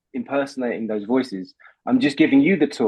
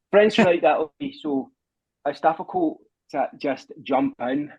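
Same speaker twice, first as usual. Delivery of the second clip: mock French accent; 3 semitones higher than usual. Shown as a demonstration. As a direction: talk English with a French accent. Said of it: "I've got a French".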